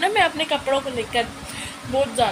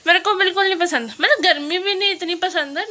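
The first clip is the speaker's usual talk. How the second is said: giggling at her own grumbling; laughing complaint; 6 semitones higher, 9 dB louder than usual. Real, not acted. Vlogger laughing as she repeats that she hates cold, laughing. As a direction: repeat it higher and quicker, laughing through it.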